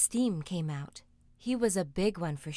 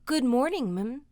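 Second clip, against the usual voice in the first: put-on polite boy; 3 semitones higher than usual. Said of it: "he said quite politely".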